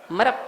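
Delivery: मरप with the p closing the word; joined consonant. Shown as a demonstration. Teacher drilling students on joined letters, joined consonant. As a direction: stop मरप short on a final p. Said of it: "क्या बोलेंगे?".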